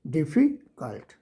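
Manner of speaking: डिफ़िकल्ट slowly, with a pause after डिफ़ी; syllable pause. Shown as a demonstration. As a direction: show the break inside डिफ़िकल्ट. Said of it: "डिफ़ी के बाद मैं रुका ना". (डिफ़ी के बाद रुककर डिफ़िकल्ट)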